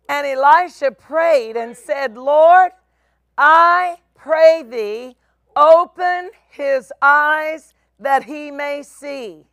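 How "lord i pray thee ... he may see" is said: fervent prayer. Retold or imitated. Elisha prays aloud.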